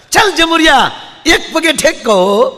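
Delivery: high, loud showman's call, laughing into a shout at the end; street monkey trainer. Retold or imitated. Trainer orders his monkey to hop on one leg, loud high call. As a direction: stretch the order out slowly, then break into laughter.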